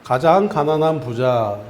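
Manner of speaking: slow, clearly paced call for the congregation to echo; slow recitation to repeat. Shown as a demonstration. Pastor leads the congregation in a repeated phrase, slow recitation. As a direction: lay out each word slowly so others can repeat it. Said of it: "한번 따라하겠습니다".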